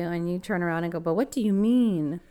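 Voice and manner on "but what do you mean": slow, pointed, suspicious question; condescending. Pretend. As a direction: ask it like an accusation. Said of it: "you don't have to say it like that".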